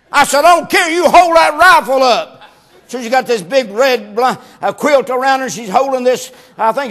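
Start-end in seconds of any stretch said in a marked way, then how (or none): 0.4-2.4 insistent order. Retold or imitated. Husband insisting to wife.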